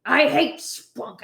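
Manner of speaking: slow, lightly voiced grumpy boss; a hint of Lou Grant, drawn out; Ed Asner impression. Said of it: "Ed Asner impression".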